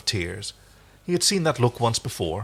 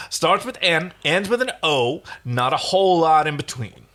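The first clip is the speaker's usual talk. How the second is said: high, loud, voice near cracking; manic rush; 6 semitones higher, 4 dB louder than usual. Acted. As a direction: rattle it off, barely holding together. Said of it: "speaking quickly, his voice starting to crack".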